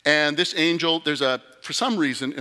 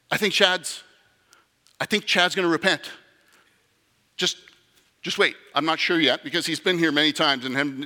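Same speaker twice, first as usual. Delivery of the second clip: hopeful and thrilled, pitched up; excited angel; 2 semitones higher, 3 dB louder than usual. Acted. Excited scout angel calling friends.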